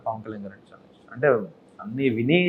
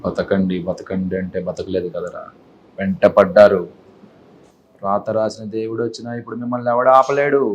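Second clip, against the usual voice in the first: low, slow, menacing film dialogue; a touch of angry hero; 5 semitones lower than usual. Shown as a demonstration. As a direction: deliver it like an angry hero threatening. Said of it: "కోపం".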